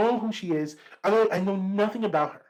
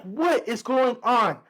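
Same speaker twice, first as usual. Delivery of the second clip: drawn-out, higher, baffled question; retold bewilderment; 4 semitones higher, much slower than usual. Student called out by an unknown teacher, baffled. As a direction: stretch it out in slow bewilderment. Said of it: "I'm confused as hell".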